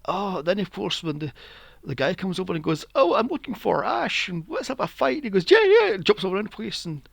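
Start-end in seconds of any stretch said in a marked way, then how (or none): 2.9-5.2 high, louder put-on challenger voice; hammed-up high challenge; mimicked challenger. 5.5-5.9 very high, loud excited yelp; squealed over-keen agreement; mock eagerness. Voices trainer suddenly eager to fight.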